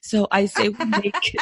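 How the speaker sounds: hoarse from a cold; rough, tired sick voice; sick raspy voice. Real, not acted. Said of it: "I feel like I sound like a dying mole".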